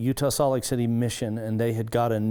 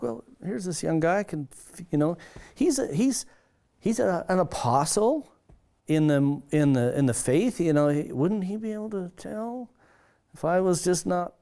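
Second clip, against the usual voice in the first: incredulous thinking aloud; 6 semitones higher than usual. Retold or imitated. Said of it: "You know, it was like".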